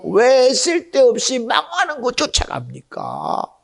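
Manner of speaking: preacher building to a fevered high plea; climbing preaching cry. Real, not acted. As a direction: press them harder with every line. Preaching climax, rising plea.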